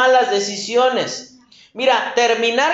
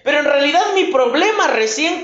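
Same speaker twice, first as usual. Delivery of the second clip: a sudden higher "No" of dismay, then worried; dismayed Judas; 3 semitones higher than usual. Retold or imitated. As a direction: Judas realising he is trapped, alarmed. Judas waking in condemnation.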